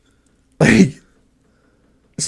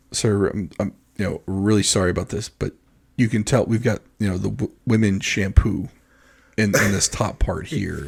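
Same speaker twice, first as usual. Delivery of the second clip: soft, lower, halting politeness; delicate apology; 4 semitones lower, 5 dB quieter than usual. Retold or imitated. Husband explaining to an older stranger about the cart, apologetic and careful. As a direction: tiptoe gently through an awkward apology.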